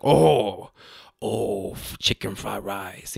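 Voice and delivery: drawn-out mock Asian accent; stereotypical Asian accent. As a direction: imitate a dated sitcom Asian accent. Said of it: "very stereotypically offensive".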